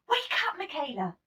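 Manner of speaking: high, loud wake-up call; mother calling daughters awake; cheerful call. A narrator's reading. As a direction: call the girls out of bed. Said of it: "Mama called one Saturday morning".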